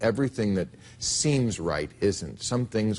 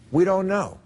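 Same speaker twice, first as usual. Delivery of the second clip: louder, higher mock quote; quoted admission; 9 semitones higher, 4 dB louder than usual. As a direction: throw out "We don't know." loud and high. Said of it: "what you said was".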